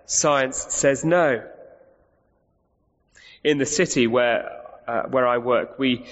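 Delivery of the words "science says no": slow mock refusal. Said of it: "But nevertheless".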